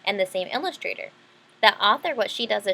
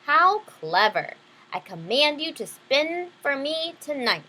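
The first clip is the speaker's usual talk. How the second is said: greedy king; 5 semitones higher, slower than usual. Acted. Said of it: "the king cried greedily".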